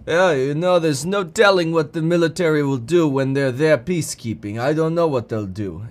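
lightly voiced offhand leader; Putin. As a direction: shrug it off in a lightly put-on voice. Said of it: "Putin's like".

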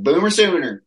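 imitating a Southern college girl, Boomer Sooner cheered up high; mock sorority girl accent. Girl announcing her college in a mock Southern accent. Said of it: "those accents".

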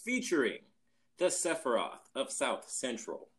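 showman's grand introduction; ringmaster. Acted. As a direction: announce it like a circus ringmaster. Podcast intro hype announcement.

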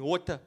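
"water" as "waw-tuh", no r; his own pronunciation. Shown as a demonstration. Comic comparing both words, "water" as "waw-tuh". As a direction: say "water" with a crisp t. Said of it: "That's how I say it".

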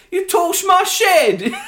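loud, high, drawn-out bad Southern drawl; mock a terribly faked American Southern accent; fake Southern accent. Co-host mocks Maisie Williams doing the American, hammed-up Southern accent. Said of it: "Doing it with the American Southern accent".

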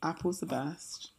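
secretive whispered claim; hushed, slow confiding whisper. Real, not acted. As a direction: lean in and whisper it. Whispered aside.

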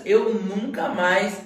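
slow, stretched NUNCA MAIS; determined vow. Retold or imitated. Retelling a vow to quit bricklaying work, determined. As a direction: draw out "nunca mais" with resolve. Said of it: "Eu saí dali com aquela determinação".

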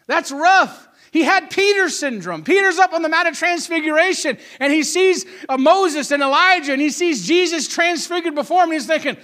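animated pulpit storytelling; impassioned preaching. Real, not acted. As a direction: preach the Bible story with energy. Preaches at full force.

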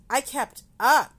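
loud, high laugh. Real, not acted. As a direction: laugh it out proudly. Proud laugh about yoga class.

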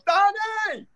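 loud, high, drawn-out call across a line. Retold or imitated. Comic calling out to the doorman by name, loud and high. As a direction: hail a friend at the door.

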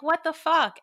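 exasperated high squeal, retold; retold exasperation. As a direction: replay a baffled outburst, pitched right up. Reenacts frustration at lost keys.

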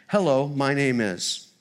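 slow, deliberate Hello, my name is with each word set apart; slow demo line. Shown as a demonstration. Teaching the congregation the greeting, slow and deliberate. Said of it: "here's the statement I want you to just, uh, hear".

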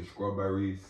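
"strawberries" starting with SKR, like "scrawberries"; STR said as SKR. Shown as a demonstration. Host showing her STR trouble, "strawberries" as "scrawberries". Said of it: "I always do an accent. I say".

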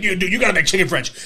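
mock-urgent shout to a coworker; heated insisting. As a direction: press the point at a buddy, raising your voice. Acting out argument while serving coffee.

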